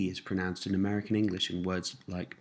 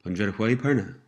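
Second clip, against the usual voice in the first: slightly quicker model phrase; a little faster. Shown as a demonstration. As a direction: run the words together a little more briskly. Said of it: "And a little faster".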